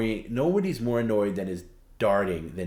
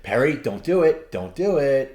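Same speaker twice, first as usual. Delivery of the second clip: warning raised voice; 5 semitones higher, 7 dB louder than usual. Retold or imitated. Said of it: "I'll just be like".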